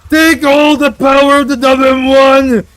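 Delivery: high, loud gloating proclamation; villain victory speech. Acted. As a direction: declare the revolution like a mad villain. Villain proclamation after win.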